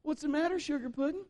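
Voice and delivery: high, sweet sing-along dad voice; high-pitched pet-name voice; doting dad. Retold or imitated. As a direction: coo to a little girl, mock-sweet. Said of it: "looks in the mirror and he goes".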